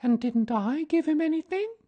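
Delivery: plaintive little question; sad Christopher Robin. A narrator's reading. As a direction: sad small boy in a story. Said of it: "asked Christopher Robin sadly".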